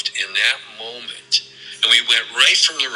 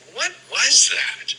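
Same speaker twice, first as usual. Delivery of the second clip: slow, high, demanding question from an upset father; imitating an upset father demanding an answer; angry dad; much slower than usual. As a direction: retell dad's angry question, drawn out and high. Angry dad confronting son at rink.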